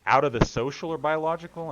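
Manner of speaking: incredulous. Real, not acted. Incredulous echo of friend's question.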